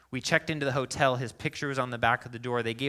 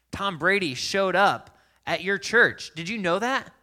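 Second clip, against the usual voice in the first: laughing, eager crowd voice; excited telling; 7 semitones higher, 7 dB louder than usual. Retold or imitated. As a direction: tell the news with glee. Crowd telling about Tom Brady.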